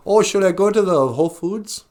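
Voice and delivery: a mild first go at imitating her; Natasha. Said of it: "Although it sounded more like this".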